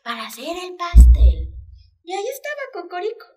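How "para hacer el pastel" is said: very high chick voice, trying to sound calm; nervous little chick. Acted. Chick reassures his mother before going out, high and nervous. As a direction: squeak it out, nervous but brave.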